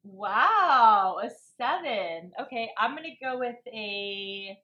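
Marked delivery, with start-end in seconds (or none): 0.0-2.3 loud surprised wow; shocked at the number. Real, not acted. Surprised at the rating.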